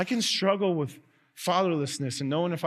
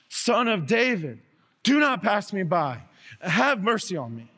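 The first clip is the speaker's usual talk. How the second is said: animal-like wailing cry; 5 semitones higher, 4 dB louder than usual. Acted. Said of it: "like an animal crying out all the more".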